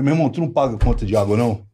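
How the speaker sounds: fast, hushed improvised question; rushed aside to the guy. Retold or imitated. Actor quickly asking a castmate about the water bill. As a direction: blurt it out quickly mid-scene. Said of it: "E virei pro cara e falei".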